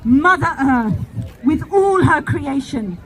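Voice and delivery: warm serene goddess voice. Acted. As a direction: bless your children as the goddess.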